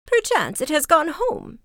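high, hopeful exclamation; crying out. A narrator's reading. Old woman guesses where the ox went, crying out. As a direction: lift the voice well up. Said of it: "cried she".

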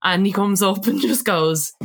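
usual speaking voice

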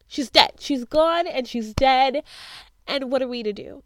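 loud, worked-up outburst; getting emotional. Real, not acted. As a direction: hit each line hard, overcome by it. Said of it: "I'm getting emotional just thinking about it".

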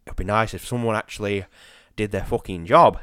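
low, sour grumble, leaning on the swear; bitchy valet. Acted. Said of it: "the really bitchy one".

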